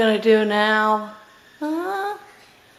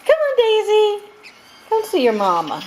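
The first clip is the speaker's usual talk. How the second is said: high, louder coaxing call; calling the bird; 12 semitones higher, 5 dB louder than usual. Real, not acted. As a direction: coax the bird to fly over.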